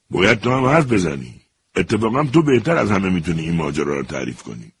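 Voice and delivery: mild mock shout. Major ordering the soldier to talk, mild shout. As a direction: push it out with firm authority. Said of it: "سرگرد فریاد کشید".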